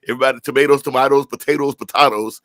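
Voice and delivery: "tomatoes" with ay, then ah; sing-song the two ways of saying "potatoes"; playful you say tomato; tomato, tomahto. Shown as a demonstration. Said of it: "either way you say it".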